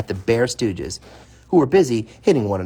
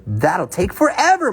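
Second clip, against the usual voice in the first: a touch of a whiny moan, higher; mild moan; 8 semitones higher, 3 dB louder than usual. Acted. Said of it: "moaned Brother".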